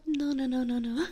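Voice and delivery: flustered out-loud denial; sudden voiced no. Real, not acted. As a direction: blurt it out to correct yourself. Breaks whisper to correct misread.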